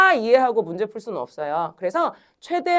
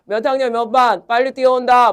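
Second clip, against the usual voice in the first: megaphone call; 5 dB louder than usual. Retold or imitated. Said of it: "확성기로".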